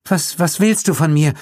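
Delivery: high scared stammer; high frightened woman. A narrator's reading. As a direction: stammer in fear. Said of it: "die Angst in ihrer Stimme".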